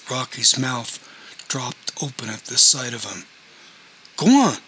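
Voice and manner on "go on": furious scream, much higher and louder. A narrator's reading. Son to stepfather, a furious scream. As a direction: scream it at him in rage. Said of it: "screamed Ron".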